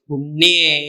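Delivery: put-on drawn-out call to a child; acted, lingering summons. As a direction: call out tenderly as if across a distance. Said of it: "രാജാവ് വിളിച്ചു".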